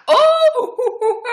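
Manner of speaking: high burst of laughter; real delighted laugh. Real, not acted. Laughing at the monkey sound effect.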